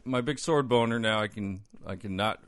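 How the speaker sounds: lonely cartoon hero whining, played for laughs; high goofy Lion-O voice. Mocking Lion-O, voiced high and silly. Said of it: "He's like".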